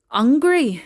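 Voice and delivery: loud, complaining cry of "Hungry"; hungry whine. Acted. Teenage sons whining loudly to their mother for food. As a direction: call it out like starving teenagers.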